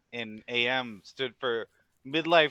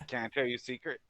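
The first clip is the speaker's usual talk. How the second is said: soft, lowered secret-telling; confidential; 4 semitones lower, 9 dB quieter, faster than usual. Pretend. Co-host letting the host in on a secret, confidential. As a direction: drop it low and soft, as if confiding.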